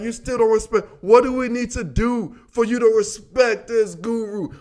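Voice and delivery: imitating buddies with a slight African accent; light African accent. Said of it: "we got the little African accent".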